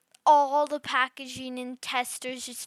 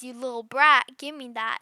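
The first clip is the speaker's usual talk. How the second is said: louder angry shout at the brat; mad old lady; 8 dB louder than usual. Retold or imitated. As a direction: snap at the kid, much louder. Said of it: "she starts getting mad".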